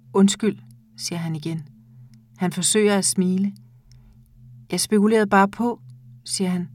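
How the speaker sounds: measured, intimate reading of a short story; calm audiobook narration with lightly voiced dialogue. A narrator's reading. Reads a short story aloud.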